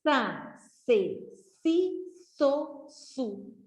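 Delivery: syllables said one by one; teacher drilling the s syllables again. Shown as a demonstration. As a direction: repeat the s syllables clearly. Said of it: "palavras com sa".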